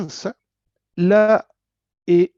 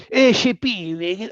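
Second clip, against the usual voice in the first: mock Argentine accent; much slower than usual. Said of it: "así, po".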